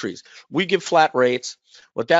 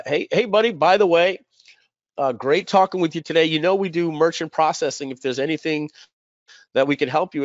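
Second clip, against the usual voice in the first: higher-pitched, chummy retold greeting; friendly sales approach; 4 semitones higher than usual. Speaker offering a friend merchant processing, friendly sales approach. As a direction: casually pitch it to a buddy.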